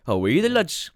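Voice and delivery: lilting mock Geordie, Newcastle style; Newcastle accent. Shown as a demonstration. Podcaster does Newcastle on request, broad Geordie lilt. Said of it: "give me Newcastle".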